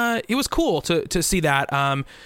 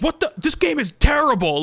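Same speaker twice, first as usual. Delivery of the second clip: imitating Justin; 9 semitones higher, 3 dB louder than usual. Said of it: "one of his Justin moments".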